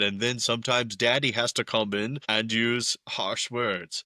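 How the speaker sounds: a light, quick imitation of a Dutch accent; a half-hearted Dutch accent impression. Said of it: "impromptu Dutch accent".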